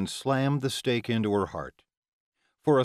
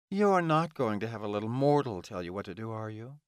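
lightly taunting villainess. Acted. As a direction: goad him with a mocking question. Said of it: "Ilona taunted Amori".

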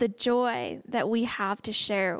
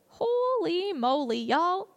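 slow, much higher, full of wonder; amazed exclaim; 6 semitones higher, slower than usual. Real, not acted. Reacting to the scripture.

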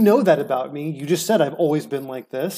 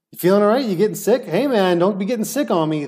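light and casual; 3 semitones higher than usual. Retold or imitated. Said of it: "I even had an air of lightness about it".

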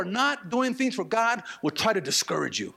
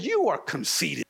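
sneering accusation; 4 semitones lower than usual. Acted. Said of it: "No, he said".

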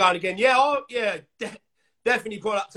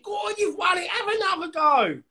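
yelling across the room; 10 semitones higher than usual. Retold or imitated. Stall crew calling out.

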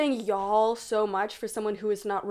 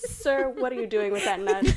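laughing. Retold or imitated. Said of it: "animals are always sir".

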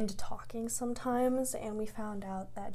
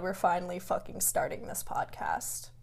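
whisper; 5 semitones lower, 7 dB quieter than usual. Real, not acted. Quiet aside after complaint.

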